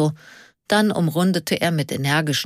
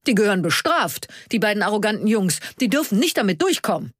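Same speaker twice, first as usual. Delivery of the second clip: indignant; 5 semitones higher, faster than usual. Acted. Karl indignant about the boys.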